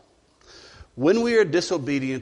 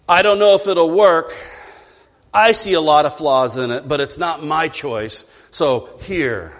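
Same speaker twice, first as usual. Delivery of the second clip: louder, reluctant complaint fading off; grudging handover; 5 dB louder than usual. Acted. Resentful employee turns in work to the boss. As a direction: hand it over with a sigh of blame.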